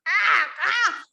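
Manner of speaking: two cawing "ah, ah" cries; loud crow caw. Acted. Crow boasts to the two dogs, loud cawing. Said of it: "I'm going to call loudly".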